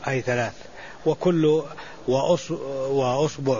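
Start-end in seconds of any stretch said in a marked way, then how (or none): 2.9-3.6 وأصبع as "wa-usbu'"; two short "u" vowels in وأصبع; damma on both. Shown as a demonstration. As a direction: say وأصبع with "u" on hamza and ba. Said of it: "مع الحركات الثلاث في الباء".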